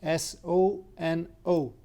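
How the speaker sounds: letters "S O N O" spelled one by one; spelling it out. Shown as a demonstration. Teacher spells the word for a student, letter by letter. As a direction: spell "S O N O" slowly and clearly. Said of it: "io sono Alessio".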